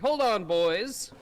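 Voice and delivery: put-on mid-Atlantic accent. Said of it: "I say with a mid-Atlantic accent".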